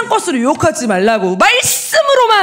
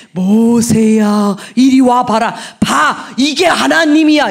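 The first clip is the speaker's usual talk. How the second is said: God calling Moses, mock booming; 5 dB louder, slower than usual.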